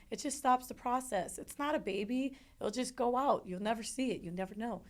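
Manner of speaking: lightly mimicked brush-off; glib reassurance. Retells others' easy reassurances.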